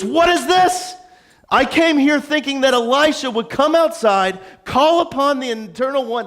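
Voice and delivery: high, exasperated outburst easing into complaint; Naaman, frustrated. Retold or imitated. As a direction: act out an affronted man's grievance. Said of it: "the frustration is dripping from Naaman".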